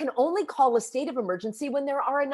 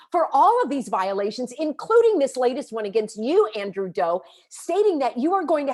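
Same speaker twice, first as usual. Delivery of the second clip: louder, forceful threat to the board; raised-voice public comment, threatening to sue; angry warning; 4 dB louder than usual. Real, not acted. Confronting the board at a meeting.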